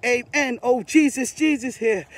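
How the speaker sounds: prayer building back up with strong declarations; renewed fervent prayer. Real, not acted. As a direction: declare it across the world. Prayer rising again.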